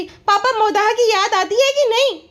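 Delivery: lightly ape her sing-song question; mock vlogger asking. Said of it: "अपने पापा से भी पूछ रही थी".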